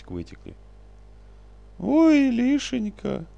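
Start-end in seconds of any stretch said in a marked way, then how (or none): 1.8-3.3 high, loud wailing sob; sobbing cry. A narrator's reading. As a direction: break into a last sob. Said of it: "всхлипнула она".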